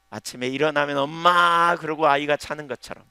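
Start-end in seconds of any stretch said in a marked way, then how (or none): 1.0-1.8 a hint of a child's call; lightly voiced child crying for mom. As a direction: call out like a little child waking. Child calling mother in morning.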